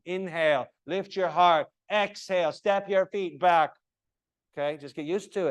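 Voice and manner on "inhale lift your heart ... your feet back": varied tone. Shown as a demonstration. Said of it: "a variety, up, down".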